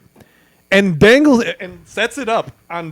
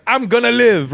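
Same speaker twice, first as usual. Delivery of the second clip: higher-pitched, badly faked Bear Grylls accent; terrible Bear Grylls accent; 5 semitones higher than usual. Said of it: "that was a terrible accent".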